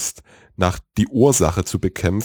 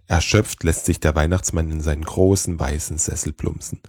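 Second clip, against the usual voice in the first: lower, measured storytelling voice; story narration; 3 semitones lower than usual. A narrator's reading. Podcast host to listeners, calm story narration. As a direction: draw listeners into a cosy tale.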